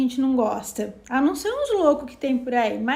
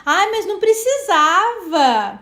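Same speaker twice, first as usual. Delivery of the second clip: slow, louder, higher fake humility; mock modest protest; 4 semitones higher, 6 dB louder, slower than usual. Thanking a gift-giver, slow mock-modest protest. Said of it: "a gente fala assim pra pessoa".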